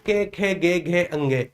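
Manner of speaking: "कै, खे, गे, घे, अंगे" all ending in e; variant letter names. Retold or imitated. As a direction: recite each letter with an e vowel. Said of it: "इस तरीके से बोलते हैं".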